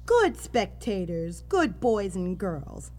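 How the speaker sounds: slow, sweet talk to pets; slow dog praise. Acted. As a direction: praise them like good dogs. Judge addresses animal spectators.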